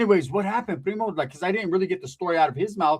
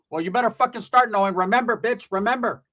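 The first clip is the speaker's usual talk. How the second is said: higher-pitched pushy mom voice; mock scolding mother; 4 semitones higher than usual. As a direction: scold your son, lightly hammed up. Imitates aunt scolding her son.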